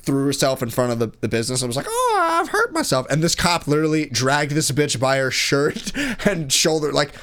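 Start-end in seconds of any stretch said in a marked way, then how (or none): 1.9-3.1 very high-pitched put-on wail of injury; mock hurt homeless lady. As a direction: imitate someone crying out hurt, way up high. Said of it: "this, like, homeless lady".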